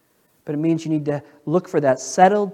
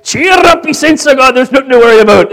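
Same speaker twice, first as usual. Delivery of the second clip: high, loud, quick mock-Scottish camp chant; Scottish brogue; 8 semitones higher, 14 dB louder than usual. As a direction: rattle it off in a Scottish accent, rolling the R. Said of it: "with a Scottish brogue".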